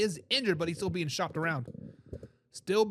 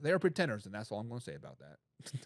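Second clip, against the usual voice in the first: Forrest Gump; 10 semitones lower, 7 dB quieter than usual. Acted. Host jokingly quotes a film hero on pretenders, light Southern accent. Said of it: "In my best Forrest Gump accent".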